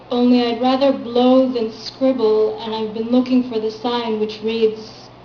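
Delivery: measured reading of a poem, firm line openings; poetry reading. Acted. Poet reading her work to a small audience, poetry reading. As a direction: recite your poem to a live room.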